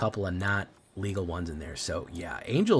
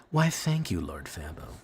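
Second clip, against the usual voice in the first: suave thanks; 3 semitones lower than usual. Pretend.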